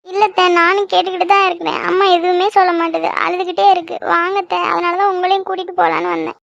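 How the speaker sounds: mildly weepy plea; tearful pleading. Acted. Girl asks aunt to come to her mother, tearful. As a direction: beg auntie to come, near tears. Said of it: "அது ஏன்னு நீ அழுதுகிட்டு வர".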